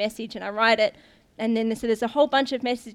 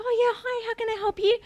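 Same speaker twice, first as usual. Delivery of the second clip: bright mock greeting; 12 semitones higher than usual. Cheery greeting to visitors.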